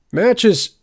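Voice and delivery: high, loud call to a beast; shouted command. A narrator's reading. Wolf Rider calls the wolf back, commanding shout. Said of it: "shouted the Wolf Rider".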